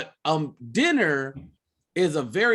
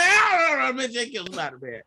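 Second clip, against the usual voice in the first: mock wailing; 8 semitones higher than usual. Man crying to his wife over Spider-Man, hammed-up wail. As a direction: wail then sink into mock despair. Acting out grief over the film.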